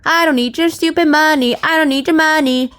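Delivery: loud, high and haughty king; snobbish king. Acted. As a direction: play the rich king who needs nothing. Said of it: "And they are like".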